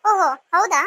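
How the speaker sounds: loud drawn-out "Oho" full of scorn; mock her with a loud fake surprise; sarcastic mock surprise. Guest mocks the wife's threat, loud and sarcastic. Mocking reply to the scolding.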